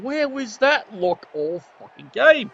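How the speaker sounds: lightly voiced grumbling coach; a hint of an exasperated coach, slowed down; voicing the coach. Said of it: "And he's kinda going".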